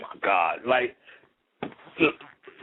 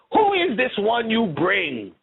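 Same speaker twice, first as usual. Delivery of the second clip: slow, higher put-on African English accent; mock African English accent; 7 semitones higher, slower than usual. Girl at the drumming greeting the newcomer in a put-on African English accent. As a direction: drag out the fake African English voice. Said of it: "fake-ass English African voice".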